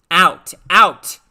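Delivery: loud desperate shout; urgent cry. Acted. Lisa shouting to herself to flee, loud. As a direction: cry it out like a trapped girl. Lisa's urge to escape.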